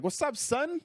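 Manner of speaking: very high-pitched, hearty imitated hello; exuberant greeting. Chappelle greets him in the green room, exuberant. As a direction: throw it out like a big hyped-up greeting.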